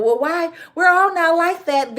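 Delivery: high, whiny mock protest of white viewers; a sarcastic impression of defensive white commenters; mocking white people. Mocking white viewers she calls out, high whiny protest. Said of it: "white people".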